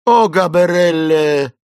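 high, loud drawn-out wail; exclaiming. A narrator's reading. Esmeralda seeing the jungle before fainting, exclaiming. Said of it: "воскликнула она".

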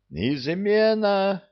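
high, drawn-out cry of alarm; a high, slow shout of treason; full-throated yell. A narrator's reading. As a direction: bellow the word to the whole hall. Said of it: "завопил во всю глотку эльф".

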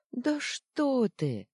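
high, slow breathy exclaim; exclamation. Acted. Девочка возражает зверьку, высоко восклицая. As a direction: protest his self-blame gently. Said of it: "воскликнула девочка".

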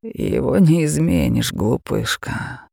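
a mocking beast purring at its prey; terrifying dragon. Dragon voice held.

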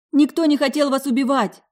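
high, loud desperate yell; screamed. Acted. Alisa to the raging Vadim, high loud scream. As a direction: scream it across the room. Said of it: "вопила моя коллега".

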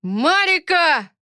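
long, loud, slow bellowed name; a furious father bellowing; roaring shout. Acted. Akhmat yells for the nanny, roaring shout. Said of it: "орёт так громко".

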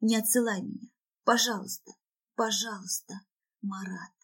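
desperate plea fading to a murmur; imploring, dwindling to near-whisper; incantation-like pleading. Acted. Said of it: "повторяю как скороговорку, как заклинание".

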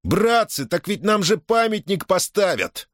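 high, thrilled yell; ecstatic shout. A narrator's reading. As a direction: shout it with delight. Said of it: "восторженно завопил". (восторженный вопль)

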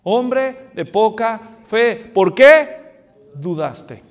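very slow, drawn-out rebuke from Jesus; slow reproach. Retold or imitated. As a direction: let each word of the reproach land. Jesús reprocha a Pedro. (reproche muy lento y solemne)

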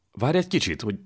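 shocked disbelief. A narrator's reading. Jankó checking the dreadful news with Zrednai, shocked disbelief. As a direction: halt the speaker, incredulous and high.

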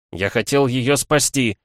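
вырвавшийся крик, медленно, громче; выкрикни в сердцах. Acted. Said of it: "Крик вырвался из моей груди". (невольный крик)

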